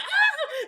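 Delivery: high loud laughing shriek; mock scream. Mockers running off scared, high laughing scream. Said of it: "they'll be like".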